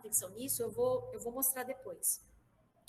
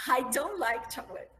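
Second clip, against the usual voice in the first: playful lie; 5 dB louder than usual. Acted. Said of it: "Uma grande mentira".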